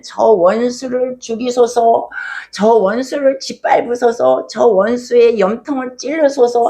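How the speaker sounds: slow, emphatic petition against enemies; imitated vengeful prayer. David praying to God against his persecutors, imitated fervent plea. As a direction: act out David pouring out raw feeling. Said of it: "자기의 감정을 하나님 앞에 그대로 다".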